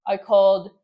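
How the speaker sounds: usual speaking voice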